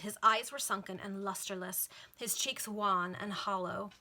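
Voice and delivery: grave, deliberate descriptive reading; dramatic novel narration; story narration. A narrator's reading. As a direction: dwell on each detail, drawing out phrase ends. Reads a novel aloud.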